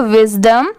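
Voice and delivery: विजडम with a short "uh" in the last syllable; ends in "dum". Shown as a demonstration. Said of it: "D यू M वाला डम की आ रही है".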